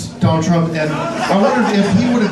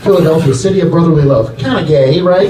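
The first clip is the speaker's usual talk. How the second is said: loud address; 6 dB louder than usual. Acted. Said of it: "loud crowd address".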